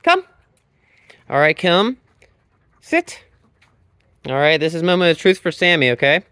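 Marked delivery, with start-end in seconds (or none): 0.0-0.2 calling the dog. Real, not acted. 2.8-3.2 firm command. Real, not acted. Dog command.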